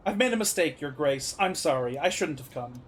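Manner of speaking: low, subdued apology; mildly remorseful, pitch sinking; regretful apology. Acted. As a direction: back down humbly before a ruler. Character apologises to a ruler.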